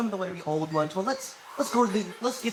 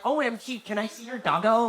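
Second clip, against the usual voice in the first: lightly voiced gushing zoomer; a light mock of cutesy online talk; mocking internet slang; 2 semitones higher than usual. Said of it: "I'm not fucking talking like that".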